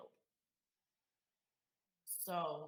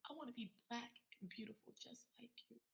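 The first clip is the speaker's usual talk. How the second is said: put-on child's voice; 5 semitones higher, 8 dB quieter, faster than usual. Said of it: "and she says".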